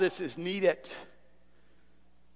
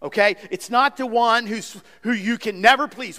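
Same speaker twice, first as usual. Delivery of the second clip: ordinary talk, nothing marked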